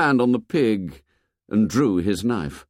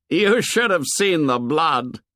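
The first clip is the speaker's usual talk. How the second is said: thrilled boast; 6 semitones higher than usual. A narrator's reading. Jack relishing the blood to the silent boys. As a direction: savour it, arms wide.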